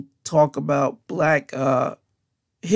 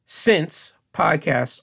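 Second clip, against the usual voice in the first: slow spelling out; much slower than usual. Shown as a demonstration. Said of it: "I'll say it slowly for you".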